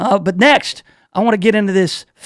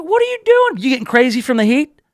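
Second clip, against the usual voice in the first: incredulous; 5 semitones higher than usual. Retold or imitated. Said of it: "It's like".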